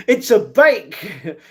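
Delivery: laughing it out, drawn out and high; amused, slow laughing exclamation. Real, not acted. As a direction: crack up while saying it. Laughing at a chat joke.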